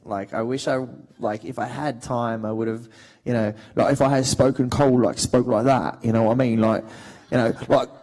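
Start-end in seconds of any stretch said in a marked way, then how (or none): 3.9-6.0 rough Cockney accent. Shown as a demonstration. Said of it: "more of a Cockney".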